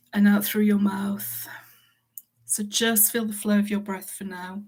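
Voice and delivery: calm, measured meditation guidance with long pauses; guided meditation. Acted.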